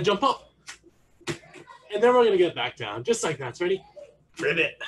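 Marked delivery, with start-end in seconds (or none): 4.4-4.8 short frog ribbit; frog noise. Shown as a demonstration. Coach demonstrating froggy jumps to the tigers, frog noise. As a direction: ribbit on the jump. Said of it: "the sound that frogs make".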